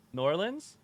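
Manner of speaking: New Orleans run together as "Norlins"; local pronunciation. Shown as a demonstration. Streamer asking chat about a nickname, local pronunciation of New Orleans. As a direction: say New Orleans with the first word squashed into it. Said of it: "is that just an accent".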